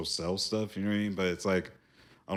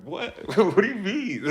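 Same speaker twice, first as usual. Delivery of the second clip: laughing; 12 semitones higher, 8 dB louder than usual. Retold or imitated. Retells being told about his accent.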